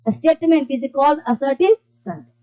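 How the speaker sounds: very slow definition read aloud; slow dictation. Shown as a demonstration. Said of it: "तो देखो क्या कहा". (धीमे-धीमे परिभाषा लिखवाना)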